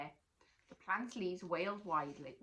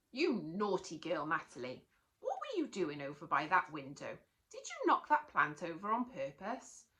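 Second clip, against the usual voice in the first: louder, stern telling off; scolding teacher; 4 dB louder than usual. Acted. Teacher scolding Natalie for the plant, louder and stern. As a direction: scold the child.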